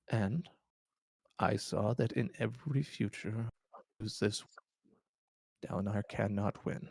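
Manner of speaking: lightly voiced frail old man; weary old king confessing. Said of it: "he goes through his explanation".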